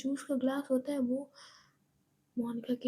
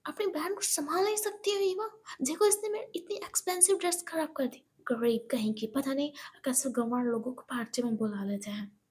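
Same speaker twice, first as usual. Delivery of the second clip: snobbish scolding. Acted. Monika berates Eva about her sister, haughty and sneering. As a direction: look down your nose at her. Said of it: "Monika कहती है".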